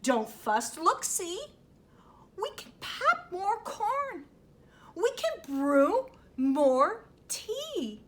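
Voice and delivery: a hint of a high mouse voice; squeaky mouse. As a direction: squeak reassurance in a small high voice. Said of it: "Mouse squeaks".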